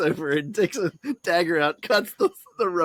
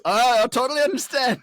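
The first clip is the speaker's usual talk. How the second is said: understanding father; 8 semitones higher, 4 dB louder than usual. Retold or imitated.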